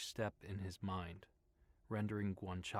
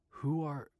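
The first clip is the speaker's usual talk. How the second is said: startled, trailing off; 6 semitones higher, 6 dB louder than usual. A narrator's reading. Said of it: "his voice trailed off".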